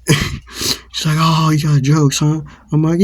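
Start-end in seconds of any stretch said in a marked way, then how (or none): 1.2-2.4 imitating an aggressor, higher and louder; retold confrontational question; taunting challenge. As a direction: act out a hostile jab. Acted challenge in quarrel.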